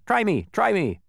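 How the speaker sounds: high, loud eager plea; eager bee. A narrator's reading. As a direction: beg to be tested.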